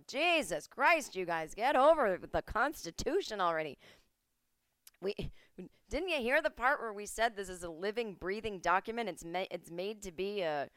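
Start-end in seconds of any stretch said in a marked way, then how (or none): 0.1-7.1 exasperated founding fathers. Retold or imitated. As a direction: sigh it out like fed-up old statesmen. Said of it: "the founding fathers would come back and go".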